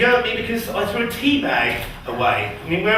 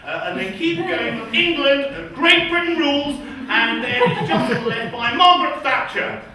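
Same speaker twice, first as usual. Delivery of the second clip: parody English local; 5 semitones higher than usual. Acted. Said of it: "Imagine England asking somebody the same".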